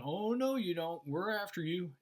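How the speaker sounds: lightly acted chase threat; pursuing army. Acting out pursuing Egyptian army.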